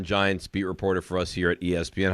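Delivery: ordinary talk, nothing marked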